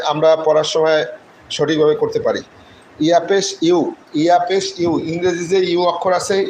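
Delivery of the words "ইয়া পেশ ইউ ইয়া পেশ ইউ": ইউ as a full English letter U. Shown as a demonstration. Teacher drills the spelling, ইউ fully pronounced like letter U. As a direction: spell it out, giving ইউ its whole glide. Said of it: "ইউ পুরোটা উচ্চারণ করবেন".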